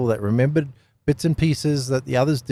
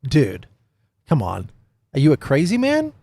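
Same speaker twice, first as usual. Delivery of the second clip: disbelieving Pilate. Acted. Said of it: "You can imagine Pilate at this point".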